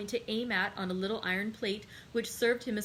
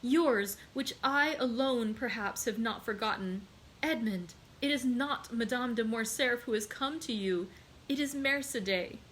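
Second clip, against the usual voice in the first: lightly voiced pleading mother; Mercédès pleading; 3 semitones higher than usual. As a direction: plead with him, a hint of tears. Mercedes voiced in narrated scene.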